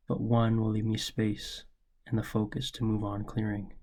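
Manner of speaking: measured, deliberate spoken-word reading; poem recitation. Acted. Poet reading a poem about father's lesson, measured recitation. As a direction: read it like a poem you wrote for your dad. Reads own poem aloud.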